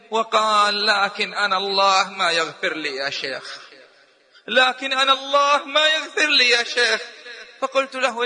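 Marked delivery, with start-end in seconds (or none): 4.5-7.0 يائس قليلا، كلمة "ما" مشددة ومرفوعة; توسّل شاب قانط بلمسة حزن خفيفة; حزن مقلَّد. Retold or imitated. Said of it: "فنظر إلي بحزن". (الشاب للشيخ بحزن ويأس خفيف)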